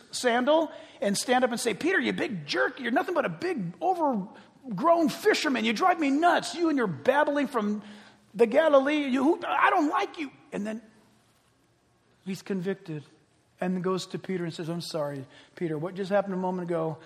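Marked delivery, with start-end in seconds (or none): 1.7-10.3 hammed-up scolding, pitch creeping up; mock-irritated name-calling without shouting; mock tirade. Acted tirade of Paul at Peter. 14.7-17.0 low, soft acted apology; subdued, mock-humble regret; contrite apology.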